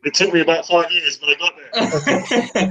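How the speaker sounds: muffled, echoey far-off voice; down a well. Real, not acted. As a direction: sounds like talking from the bottom of a well. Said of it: "You do sound like you're at the bottom of a well as well".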